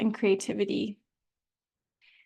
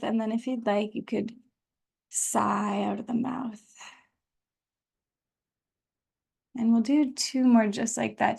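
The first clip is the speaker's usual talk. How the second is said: guided meditation. Real, not acted. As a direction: ease them into the practice with long pauses. Leads breathing into practice.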